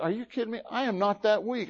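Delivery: high-pitched, incredulous bragging; cocky protest. Acted. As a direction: protest as if your courage were doubted. Acts Peter's indignant bragging.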